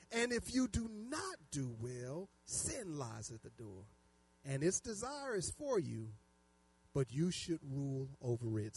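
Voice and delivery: preacher's solemn, measured Bible reading; scripture reading. Acted. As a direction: read it out deliberately, settling into quiet weight. Reads scripture aloud to congregation.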